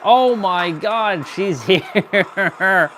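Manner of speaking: hysterical laugh. Real, not acted. Gamer laughing at enemy's return.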